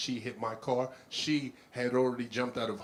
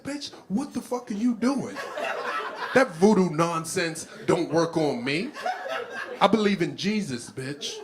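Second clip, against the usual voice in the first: raised, emphatic indignant protest; indignant comeback; 5 semitones higher, 4 dB louder than usual. Acted. Comedian defies the Haitian lady's voodoo, indignant and raised. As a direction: push back with comic outrage. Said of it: "I said".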